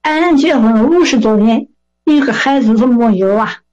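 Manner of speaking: put-on aggrieved Shandong old man; hammed-up elderly grievance; mock indignation. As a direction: complain crossly in Shandong dialect. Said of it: "他很生气".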